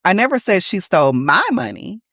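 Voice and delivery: my punched and lifted; stress on my. Shown as a demonstration. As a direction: land hard on the word my. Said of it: "it wasn't my money she stole".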